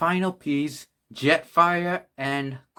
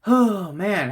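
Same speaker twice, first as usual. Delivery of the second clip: tired sigh; 6 semitones higher, 3 dB louder than usual. Real, not acted. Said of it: "I am out of breath".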